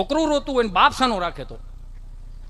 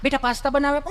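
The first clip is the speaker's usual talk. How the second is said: lightly voiced, a bit higher, sweet mother; doting mother; 6 semitones higher than usual. Mother fusses over son home from tuition, lightly sweet. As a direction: coo over your little boy.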